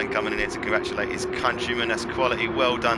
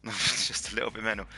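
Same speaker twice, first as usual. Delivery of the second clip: laughing through the repeat; 4 dB quieter than usual. Real, not acted. Host laughing at how wild the race was. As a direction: chuckle as you say it again.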